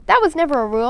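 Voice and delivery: protesting. A narrator's reading. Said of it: "I protested".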